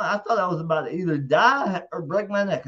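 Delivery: normal talking voice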